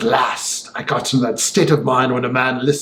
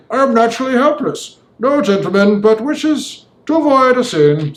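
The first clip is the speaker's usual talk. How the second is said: much higher, cold sneering gentleman; sneering villain; 9 semitones higher than usual. A narrator's reading. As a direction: sneer it out with cool menace. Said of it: "sneering coolness".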